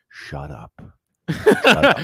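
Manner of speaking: from a low hush to a loud command; hushing kids growing urgent. Retold or imitated. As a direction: twins silencing the babysitter, escalating. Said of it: "they were like".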